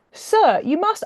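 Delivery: high, loud pressing plea; urgent plea. Acted. Woman insisting William must marry her, urgent and loud. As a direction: press him hard, insisting.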